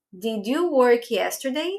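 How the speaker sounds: slow, careful English question with a rise at the end; slow model question. Shown as a demonstration. Teacher repeats the question for the class, slow and clear. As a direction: say it slowly so the class can follow. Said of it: "Eu já fiz a pergunta no passado".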